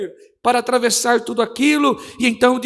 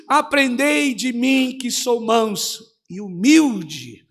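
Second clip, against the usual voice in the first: gentle; slower than usual. Acted. Jesus's words, voiced softly.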